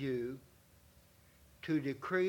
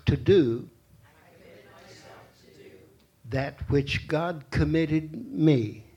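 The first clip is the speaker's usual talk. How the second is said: loud proclamation; 6 dB louder than usual. Shown as a demonstration. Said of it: "Let's go through it again one more time".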